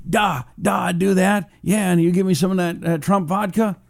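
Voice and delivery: hammed-up Russian accent, Nyet thrown in; bad Putin impression. Host plays Putin answering Trump, mock Russian accent. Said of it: "horrible impression was".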